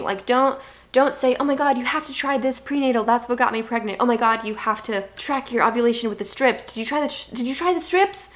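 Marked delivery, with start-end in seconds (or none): 1.4-8.3 higher, fast, gushing mock advice; gushing advice giver. Mocking a friend who pushes fertility tips, gushing.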